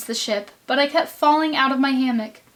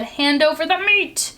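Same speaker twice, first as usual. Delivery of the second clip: mock roar; 6 semitones higher than usual. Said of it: "we all roared".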